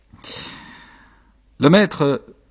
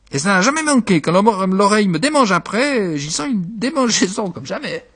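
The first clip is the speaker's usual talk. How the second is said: high-pitched wife lamenting; fretful, higher character voice; complaining wife; 8 semitones higher than usual. Acted. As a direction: insist plaintively in a raised pitch. Wife complains in acted dialogue.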